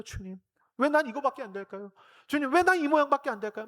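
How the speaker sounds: high pleading cry to God; pleading prayer. Retold or imitated. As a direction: cry out to the Lord.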